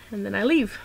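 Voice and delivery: hiccup catching the words. Real, not acted. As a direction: talk through a hiccup. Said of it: "Pardon my hiccup again".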